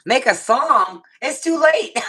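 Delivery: high, loud, amused disbelief; incredulous protest. Real, not acted. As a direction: echo the request in disbelief, voice shooting up. Reacting to request for song.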